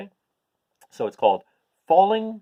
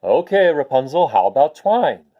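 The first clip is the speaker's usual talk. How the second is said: louder exasperated call; 7 dB louder than usual. Acted. Frustrated prince shouting up to Rapunzel, louder. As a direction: call up, patience wearing thin.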